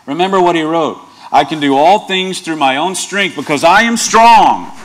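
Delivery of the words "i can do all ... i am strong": mock boastful self-reliance, a little louder; wrong version. Pastor teasing the congregation with a wrong Bible quote, boastful. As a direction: swagger through the false quote. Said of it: "I'm sorry. Let me try again".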